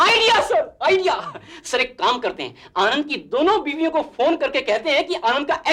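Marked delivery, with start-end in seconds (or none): 0.1-1.3 higher, eager burst; excited outburst. Acted. Underling pitching an idea to boss, excited outburst. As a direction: burst out with a brainwave.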